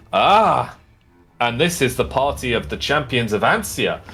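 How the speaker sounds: booming proud herald calling the crowd; dwarf herald announcing. Acted. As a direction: announce the champions with pomp.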